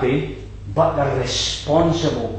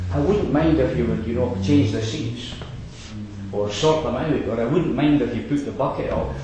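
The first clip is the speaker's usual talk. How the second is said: casual request; 3 dB quieter, faster than usual. Retold or imitated. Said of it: "It's quite different".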